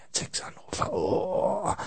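sobbing in a whisper, hammed-up; a tearful mock wail, barely voiced; mock sob. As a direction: pretend to cry over only six callers. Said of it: "Oh, ist das deprimierend".

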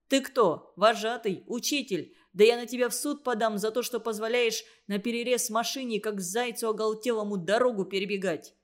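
fast, heated tirade; angry attack. Acted. Truck driver lashing out at the counselor, fast angry rant. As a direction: lay into him, quick and furious. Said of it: "И накинулся на Всеволода".

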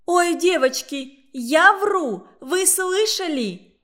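put-on indignant squeal to the other girls; offended girl appealing to her friends in outrage; mock outrage. A narrator's reading. Tosya indignant, playing offended.

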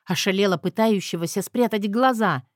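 plain reading voice

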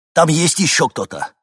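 loud, high, alarmed call; urgent cry. Acted. Мужчина тревожно кричит про дом. (громко, встревоженно)

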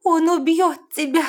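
high, loud and slow, near tears; mother sobbing a warning to her daughter. A narrator's reading. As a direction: choke it out through a sob. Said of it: "всхлипнула она".

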